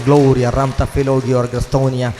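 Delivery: slow, forceful burst of tongues; praying in tongues. Real, not acted. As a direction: intone the syllables with fervour. (ഊന്നി നീട്ടിയ അന്യഭാഷാ പ്രാർത്ഥന)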